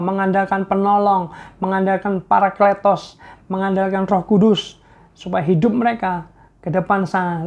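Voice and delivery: earnest pastor's prayer, building; closing prayer. Acted. Pastor prays for viewers watching the program, rising fervour.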